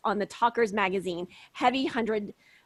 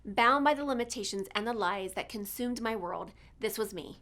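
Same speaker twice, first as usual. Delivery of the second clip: podcast intro read; 4 dB quieter than usual. Acted. Host opening her show to listeners, earnest promo read. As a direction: announce the show with dramatic weight.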